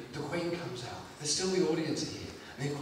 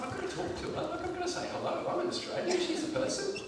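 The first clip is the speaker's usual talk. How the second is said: high, softer fretting thought; nervous inner voice; 11 semitones higher, 4 dB quieter than usual. Acted. Comedian working up to greeting a pop star, high and soft. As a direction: talk yourself into it, high and small. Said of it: "and I thought".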